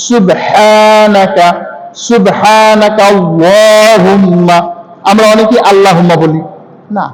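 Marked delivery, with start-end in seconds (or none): 0.1-4.6 সুবহানাকা with a throaty ḥa, stretched slowly; correct Arabic pronunciation. Shown as a demonstration. Teacher showing the correct ha sound, slow careful recitation. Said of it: "তাহলে কি পড়তে হবে আমাদের?".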